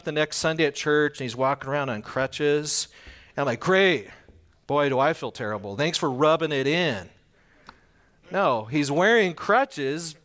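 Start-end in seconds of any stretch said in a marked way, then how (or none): 3.6-7.1 mock sarcasm. Acted sarcastic reply to crutches.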